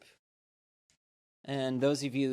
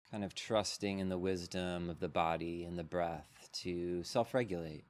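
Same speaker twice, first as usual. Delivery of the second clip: unhurried meditation guide with long pauses; measured, spacious mindfulness-teacher delivery; guided meditation. Real, not acted. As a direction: lead them gently into settling, leaving space between phrases.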